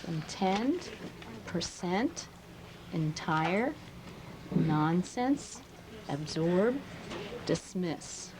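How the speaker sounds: each word read slowly, rising, to show the stress; reading stressed word list again. Shown as a demonstration. Teacher repeats the word list, clearly marking the stress. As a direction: let the kids hear the stressed syllable. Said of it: "Listen as I go through there again".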